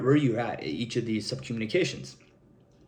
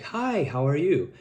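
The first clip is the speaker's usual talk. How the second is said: slower, drawn-out high-pitched hi; 2 semitones higher, slower than usual. Shown as a demonstration. Coach demonstrating a high-pitched greeting to avoid, high-pitched. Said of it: "like, a high-pitched tone".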